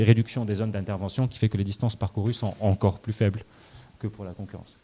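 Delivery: muffled by a mask, a bit winded; through a face mask. Real, not acted. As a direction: talk through a mask, short of breath. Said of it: "c'est difficile de parler avec le masque".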